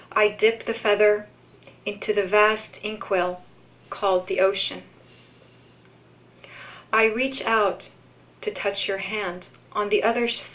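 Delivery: unhurried poetry reading with long pauses; poem reading. Acted. Reads a poem aloud.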